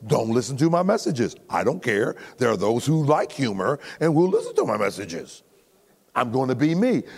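ordinary talk

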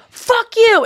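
high-pitched mock outburst; mimicked fight yell; mock angry outburst. Acting out a parents' fight.

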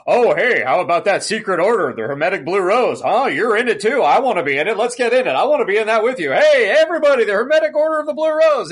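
loud, eager, high blabbermouth; mocking the main character who blabs about the order; blabbing character. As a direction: announce the secret to everyone. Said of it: "talking to people in front of audiences and going".

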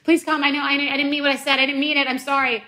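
high, frantic mock-begging; mock pleading apology. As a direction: plead dramatically like a sorry lover. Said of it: "I'm like".

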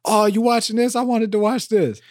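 high-pitched mock complaint; partner walking in. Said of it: "she'll walk in like".

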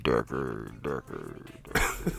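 slow, deep, echoing trailer announcer; booming trailer voice fading away; movie trailer voice. Shown as a demonstration. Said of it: "my movie trailer voice up".

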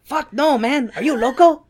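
lightly voiced Adelie scoffing. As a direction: scoff at him like a buddy. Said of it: "the Adelies are like".

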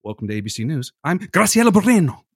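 imitating anchor rolling "Graciela Moreno" in Spanish; news anchor. Mocking friend's style with a local anchor impression. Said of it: "anchor woman goes".

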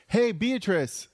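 high, drawn-out greeting; slow, high-pitched acted hail; mock friendly hail. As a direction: sing out a hello to an old acquaintance. Modelling the greeting for her.

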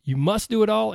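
pumped-up guru delivery; motivational hype. Pretend. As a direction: preach it like a hype coach. Hyped take vs later review.

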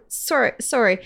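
a light Canadian accent on "sorry, sorry", the o rounded and long. Real, not acted. Apologizing mid-story, a touch of Canadian accent. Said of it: "it just sounded like a Canadian there".

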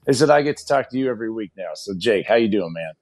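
raspy coach voice from yelling; hoarse voice. Real, not acted. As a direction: talk through a worn, raspy throat. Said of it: "You sound like you have coach voice".

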